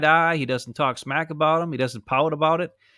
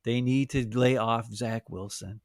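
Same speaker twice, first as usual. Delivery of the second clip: slow mock-sincere quote; 3 semitones lower, slower than usual. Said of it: "he said".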